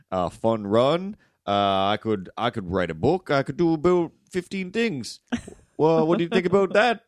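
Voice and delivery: wandering, hammed-up French Canadian accent; crazy French Canadian. Scatterbrained man boasting of plans, French Canadian accent. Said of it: "crazy French Canadian".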